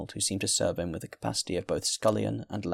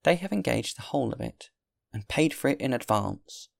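lightly voiced host, pitched higher; firm innkeeper; 4 semitones higher than usual. Host tells the guest the food is taken, firm. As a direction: refuse firmly in a raised pitch.

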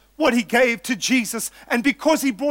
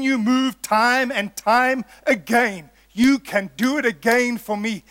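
declaring prayer. Acted. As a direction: voice a blind man's prayer, lightly acted, stretching key words. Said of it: "his cry was a prayer declaring this".

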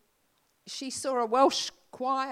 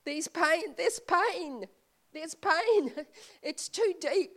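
groaning in the spirit; 5 semitones higher, 4 dB louder, slower than usual. Retold or imitated. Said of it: "It says, "Sometimes we groan".

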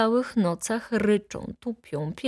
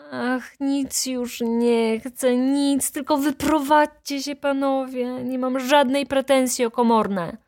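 exclaiming; 6 semitones higher than usual. A narrator's reading. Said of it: "zawołała baronowa".

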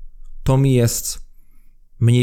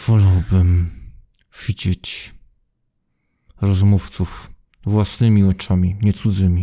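low voice pushed through clenched teeth; through gritted teeth; 4 semitones lower than usual. Acted. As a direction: keep the jaw shut as you speak. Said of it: "mówi przez zaciśnięte zęby".

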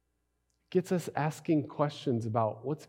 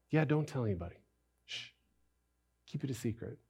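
hushed secret; 2 semitones lower, 8 dB quieter, faster than usual. Retold or imitated. Jesus hushing the healed man.

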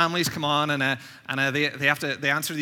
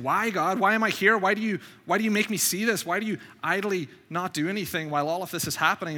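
raised, mildly anguished pleading; full of questions; 4 semitones higher than usual. Retold or imitated. Prophet questioning God about the evil he sees, pleading. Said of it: "He's full of these questions".

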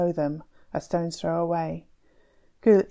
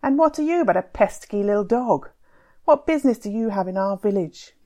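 higher, louder scornful taunt; angry taunt; 3 semitones higher, 5 dB louder than usual. Acted. Tufan insulting Timur before the village, angry taunt. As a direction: belittle him in front of everyone.

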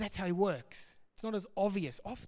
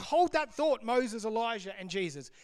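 excited Peter; 3 semitones higher than usual. Acted. Peter stops Moses, Elijah and Jesus to share his idea, excited. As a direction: burst in with keen excitement, then settle on the names. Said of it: "He's excited".

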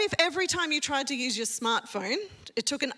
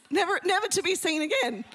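laughing; 5 semitones higher than usual. Real, not acted. Dramatic spy fantasy ending.

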